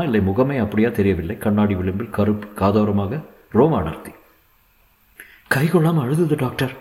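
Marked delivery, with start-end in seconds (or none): 5.5-6.7 high, pleading woman's voice; distressed mother. A narrator's reading. Mother explaining to doctor the baby cried, high anxious plea.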